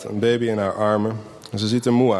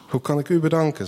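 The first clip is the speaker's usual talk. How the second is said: happy; 7 semitones higher than usual. A narrator's reading. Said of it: "zegt ze blij".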